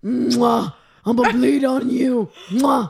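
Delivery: a lightly voiced leering inmate; prisoner impression. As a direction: smack a kiss and leer like a jailbird. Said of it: "my prisoner impression".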